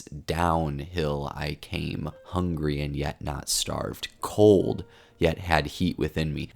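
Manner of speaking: slow, soft recitation marking the stresses; hushed, deliberate verse reading; poem reading. Acted. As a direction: lean on the stressed beats, quietly and slowly. Recites opening lines, stressing meter.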